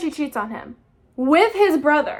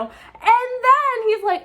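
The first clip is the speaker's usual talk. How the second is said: much higher, slow, stretched out in disbelief; incredulous setup; 9 semitones higher, 3 dB louder, much slower than usual. Real, not acted. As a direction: drag it out, can't believe it. Incredulous build-up to quote.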